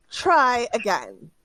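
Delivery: slow, drawn-out warning; stern demand. Acted. Bandit leader slowly telling Zayden to try again. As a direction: make him try again.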